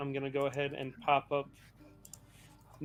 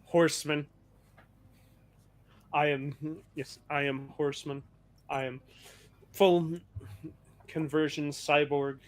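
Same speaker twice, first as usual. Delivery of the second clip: robot voice. Acted. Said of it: "He responds in a, a canned robotic voice".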